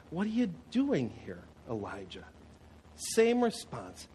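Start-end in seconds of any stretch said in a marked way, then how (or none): 0.1-2.2 softer, fading on Elijah; gentle whisper's question. Acted. The gentle whisper asks Elijah once more, quietly. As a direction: ask it as a gentle hush. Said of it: "This gentle whisper, the voice says".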